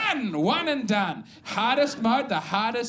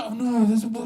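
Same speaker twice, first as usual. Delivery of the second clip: lightly voiced snooty connoisseur, laughing; mock coffee snob; 2 semitones higher than usual. Comic mocking coffee snobs to the crowd, in a snooty put-on voice. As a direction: put on a precious foodie voice.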